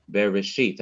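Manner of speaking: Bereshit leading into a stressed final syllable; stress on last syllable. Shown as a demonstration. Teacher showing how to reach the last syllable, final stress. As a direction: save the weight for the end of Bereshit. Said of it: "I'm now coming to the last syllable".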